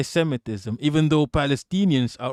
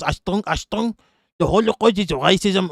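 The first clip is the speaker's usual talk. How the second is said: high-pitched mock Israeli accent; German impression that comes out Israeli; accidental Israeli accent; 4 semitones higher than usual. Streamer mocking a Nazi, slipping by mistake into an Israeli accent. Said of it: "why am I doing an Israeli accent".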